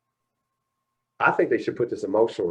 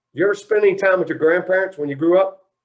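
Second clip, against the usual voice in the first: mock stern father; 9 semitones higher, 7 dB louder than usual. Father grilling him, retold.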